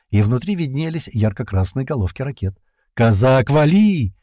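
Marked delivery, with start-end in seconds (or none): 2.9-4.1 loud, drawn-out warning shout; urgent yell. A narrator's reading. Lads yelling to the distant pilot, urgent shout. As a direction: yell as if to reach him far off. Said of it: "уже заорали почти все пацаны".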